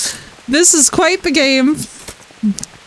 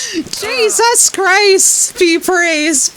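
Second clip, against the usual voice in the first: drawn-out relief; 4 semitones higher, much slower than usual. Real, not acted. Finally reaching the nest.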